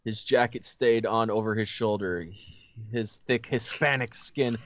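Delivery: measured read-aloud storytelling voice; story narration. A narrator's reading. Host reading the story to friends, narration.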